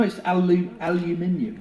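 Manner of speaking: five syllables in "aluminium", stressing MIN; British pronunciation. Shown as a demonstration. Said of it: "It's, no".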